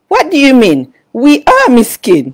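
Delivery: put-on loud, high, slow bewildered child; puzzled child. Little Mira protests to her sister that they are poor. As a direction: drag it out in innocent disbelief. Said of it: "Lepas tu dia begini".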